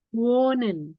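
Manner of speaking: "wonen" with a long O; lengthened vowel. Shown as a demonstration. Teacher giving another example, drawn-out O in "wonen". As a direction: stretch the first O of "wonen", no H. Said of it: "lebih panjang huruf vokalnya".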